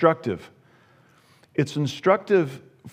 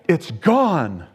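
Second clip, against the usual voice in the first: mock dismay; 3 semitones higher, 3 dB louder than usual. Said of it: "Abner looking down going".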